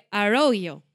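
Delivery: Arroyo drawn out very slowly; unsure pronunciation. Real, not acted. Host attempting a Californian town's name, unsure pronunciation of Arroyo. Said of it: "Σίγουρα δεν προφέρεται έτσι".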